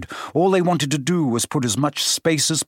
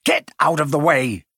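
snapping. Acted. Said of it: "snapped Ron".

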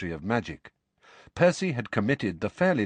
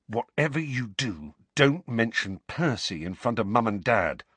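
understated tense warning; mildly urgent, held-in caution. Acted. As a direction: warn them with a touch of tension. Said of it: "in a tense voice".

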